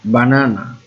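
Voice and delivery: বানানা with a strong middle না; stress on middle syllable. Shown as a demonstration. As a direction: push the first না in বানানা. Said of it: "এই যে এই নাটা আমার stress syllabus". (বানানা-র মাঝের না-তে জোর)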